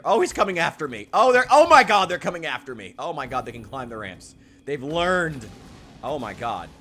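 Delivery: loud, high panicked cries; frantic panic. Real, not acted. Gamer as orcs chase him up ramps, frantic loud shrieks. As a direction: shriek as they close in on you.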